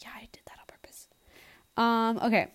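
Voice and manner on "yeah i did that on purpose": put-on fast whispered boyfriend quote; quick whisper. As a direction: rush it out under your breath. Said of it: "he's gonna be like".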